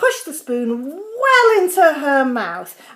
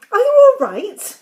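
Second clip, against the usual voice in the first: high, polite enquiry; 10 semitones higher, 10 dB louder than usual. A narrator's reading. George checking on rigid, hovering Grandma, polite. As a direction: ask with polite concern, pitched high. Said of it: "George asked her politely".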